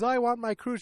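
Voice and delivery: high-pitched mock tantrum; petulant demand. Dad insisting on his cruise, petulant. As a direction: insist on it like a thwarted child. Acted quarrel over cancelled cruise.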